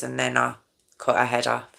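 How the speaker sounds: quiet, matter-of-fact retold confession; deadpan retelling. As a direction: report it softly, with understated detachment. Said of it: "Exactly how I'm telling you".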